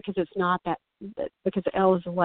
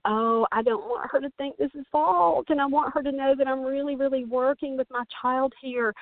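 anxious parent; 6 semitones higher than usual. Retold or imitated. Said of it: "And so they think".

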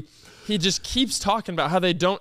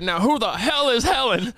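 imitated old man's indignant outburst, pitched higher; loud, angry demand; 5 semitones higher than usual. Old man slamming the counter, mock angry demand. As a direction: act out his angry demand. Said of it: "he said it loud. He said".

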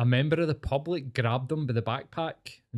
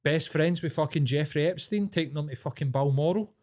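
real anger; 5 semitones higher than usual. Real, not acted. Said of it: "I'm really fucking angry at that".

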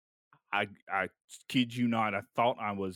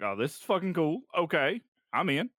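higher-pitched, eager yes; retold excitement; 7 semitones higher, 4 dB louder than usual. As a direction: replay being instantly won over, pitched up and louder. Retelling his instant eager reaction.

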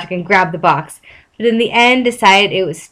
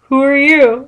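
higher-pitched clueless Patrick; stupid; 6 semitones higher than usual. A narrator's reading. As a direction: play him dim and baffled, pitched up. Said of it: "looked at him stupidly".

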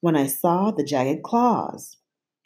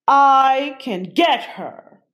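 louder, higher monster hiss; 8 semitones higher, 5 dB louder, slower than usual. A narrator's reading. Vladimir answering the narrator, hissing. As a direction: let it slither out. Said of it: "he hissed".

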